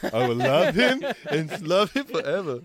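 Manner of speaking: lightly voiced dim snowman; a hint of the Bugs Bunny snowman; abominable snowman voice. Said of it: "Sound like the abominable snowman from Bugs Bunny".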